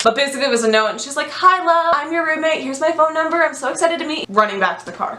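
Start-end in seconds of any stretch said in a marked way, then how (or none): 1.3-4.3 sweet roommate voice. Retold or imitated. Roommate's sweet note read aloud.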